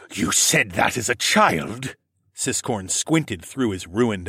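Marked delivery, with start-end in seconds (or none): 0.1-1.9 slow, lightly voiced reptile lord; doubting lord. A narrator's reading. Wounded lord questioning a parent, slow disbelief. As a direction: question it slowly, a touch incredulous.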